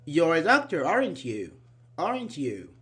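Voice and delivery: "aren't you" said as a tag seeking an answer; rising tag question. Shown as a demonstration. Teacher models asking for an answer, rising tag question. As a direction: lift "aren't you" to ask for confirmation. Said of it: "your voice goes up, something like this".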